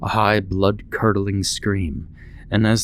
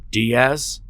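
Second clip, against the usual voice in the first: yelled; 6 semitones higher than usual. A narrator's reading. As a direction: bark the name out in surprise. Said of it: "yelled the radio".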